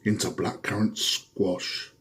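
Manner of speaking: lightly hammed-up TV preacher, fervent bursts on praise. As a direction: preach the miracle like a televangelist. Televangelist preacher sketch.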